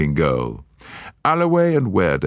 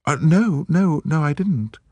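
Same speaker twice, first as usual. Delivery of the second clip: a lightly voiced, higher lady, hurried no's; flustered denial; 12 semitones higher than usual. Lady Juliet denying to Poirot, hurried and higher. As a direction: deny it in a rush.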